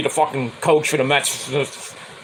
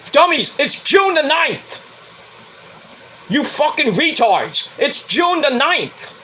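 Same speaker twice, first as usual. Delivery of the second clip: slow scolding; 7 semitones higher, slower than usual. Real, not acted. Scolding fans.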